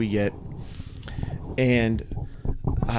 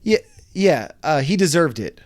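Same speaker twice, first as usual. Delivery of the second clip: mock lady voice; 2 semitones higher, 4 dB louder than usual. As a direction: sneer it like a smug bystander. Mocking the lady's remark.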